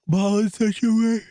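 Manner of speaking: loud, high, slow mock outrage; exaggerated disbelief. Mocking a wasted Master Ball.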